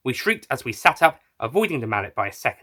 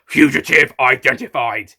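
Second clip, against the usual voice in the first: a hint of an alien trooper voice, louder; lightly voiced Judoon; 6 dB louder than usual. A narrator's reading. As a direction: read it like a mild alien enforcer.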